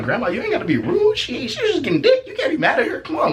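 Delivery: squeaky protest through laughter; high-pitched pleading. Acted. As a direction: plead with grandma in a comic high voice.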